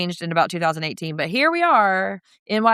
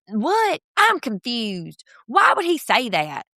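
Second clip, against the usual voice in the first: mock confused girl; 4 semitones higher, slower than usual. Mimicking Brittany, pitch raised.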